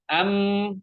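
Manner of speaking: "Am" with lips closed tight on a distinct m; clear m. Shown as a demonstration. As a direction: press the lips together for "Am". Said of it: "mimnya itu jelas ya".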